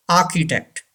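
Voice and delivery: architect as "AH-ki-tect"; silent R. Shown as a demonstration. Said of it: "R is silent".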